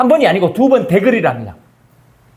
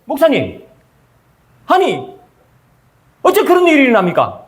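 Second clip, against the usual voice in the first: higher, indignant protest; protesting congregant; 5 semitones higher than usual. Retold or imitated. Churchgoer protests to the pastor, higher. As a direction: push back at the pastor, higher.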